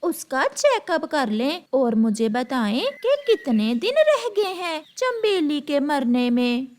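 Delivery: a bright scheming little bird; lightly voiced eager bird; bulbul character voice.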